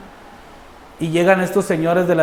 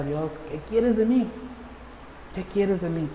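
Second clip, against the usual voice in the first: soft, higher-pitched pleading question; retold plea to God; 3 semitones higher, 8 dB quieter than usual. Man questioning God on the road, soft retold plea. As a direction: plead gently upward to God, then repeat softly. Iba preguntándole en la carretera.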